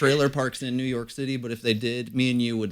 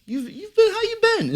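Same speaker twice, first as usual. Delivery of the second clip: squeaky high greeting. Pretend.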